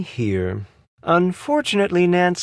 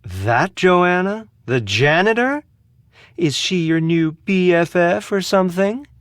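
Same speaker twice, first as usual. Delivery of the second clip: higher-pitched, incredulous questions; scornful disbelief; 5 semitones higher than usual. Acted. Asking if the janitor is her new friend, scornful. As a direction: lift each question in disdain.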